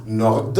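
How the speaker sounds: "Nord" with released D, then a stop; pause after word. Shown as a demonstration. Teacher showing a compound in German, pause after it. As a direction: finish "Nord" fully and hold off. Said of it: "on fait une pause".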